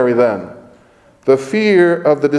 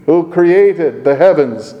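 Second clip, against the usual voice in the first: slow, created pressed hard; stress on created; 3 semitones higher than usual. Shown as a demonstration. Preacher underlining created in Isaiah, slow and stressed. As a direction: weigh down on created. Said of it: "underline that word".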